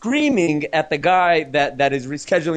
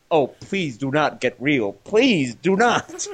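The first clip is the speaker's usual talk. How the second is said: mock pleading, slowing right down at the end; retold timid plea; slower than usual. Passenger stuck between two huge angry men, mock timid plea. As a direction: plead as if feeling tiny, drawing out the last words. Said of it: "feeling as tiny as I can be".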